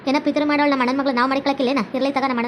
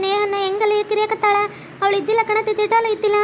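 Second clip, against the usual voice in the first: lightly voiced woman, higher, tattling; accusing young woman; 5 semitones higher than usual. Bride accuses rival to mother-in-law.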